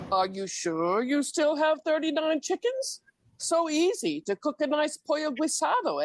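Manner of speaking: half-sung playful back-and-forth of a courting couple; voiced proposal poem. Poet voicing a proposing couple, light playful role voices.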